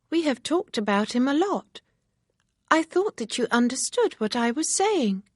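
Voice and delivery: excited chatter; Harriet, eager and girlish. Acted.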